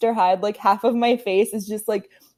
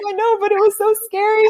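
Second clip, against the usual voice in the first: retold freaking out; 11 semitones higher than usual. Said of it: "like, freaking out".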